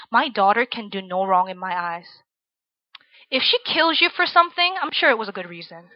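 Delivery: understated stern dad voice; lightly voiced protective Korean dad, matter-of-fact; stern father. Stern dad warning his daughter's man in a man-to-man talk, mildly stern. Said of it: "my dad's very stern".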